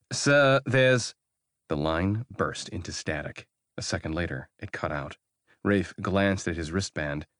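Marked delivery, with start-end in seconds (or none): 0.1-1.1 higher and louder, urgent; rising alarm. Acted. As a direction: cut off mid-warning. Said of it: "Rafe heard James's rising voice".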